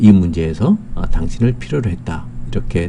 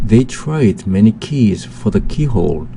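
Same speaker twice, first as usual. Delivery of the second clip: very slow, word by word English sentence; slow dictation reading; much slower than usual. Shown as a demonstration. Teacher reading the second example sentence to students, very slow. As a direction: spell it out slowly for learners.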